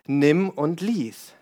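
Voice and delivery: slow, solemn divine voice, each word set apart; voice of God. Acted. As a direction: speak it slowly like a calm voice from above. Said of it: "begegnet ihm Gott und spricht zu ihm". (langsam und feierlich, wie Gottes Stimme)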